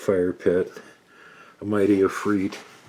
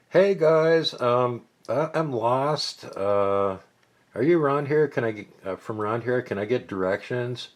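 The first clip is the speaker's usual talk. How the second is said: much higher, sweet and hesitant; innocent lost girl; 7 semitones higher than usual. Acted. Buffy fakes being lost to the guards, high and sweet. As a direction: play dumb and helpless.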